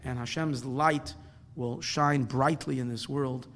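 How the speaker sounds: measured, solemn blessing; closing prayer. Real, not acted. Closes with a prayer.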